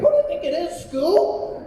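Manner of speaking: a hint of cartoon mystery-solver; cartoon detective questioning. Voicing detectives asking Scooby.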